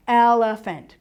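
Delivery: "Elephant" with all three syllables distinct; sounded-out syllables. Shown as a demonstration. Teacher showing how school taught hearing syllables, sounded-out syllables. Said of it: "taught in school to hear that".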